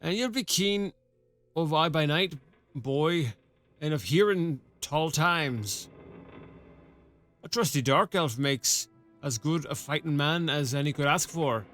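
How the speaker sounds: put-on a rough rural-British-ish sergeant accent, loosely done; half-baked rustic soldier accent; gruff old soldier accent. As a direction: play the one-armed sergeant with a put-on country burr. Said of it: "I don't know what accent".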